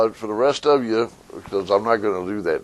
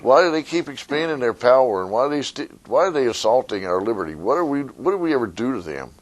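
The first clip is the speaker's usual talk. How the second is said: complaining citizen; 3 semitones higher than usual. Retold or imitated. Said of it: "So when you say".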